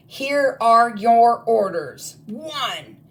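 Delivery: high, loud barked war orders; a witch headmistress giving attack orders to her goblins; commanding witch. Acted. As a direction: order the troops like a furious witch queen. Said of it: "she bellowed".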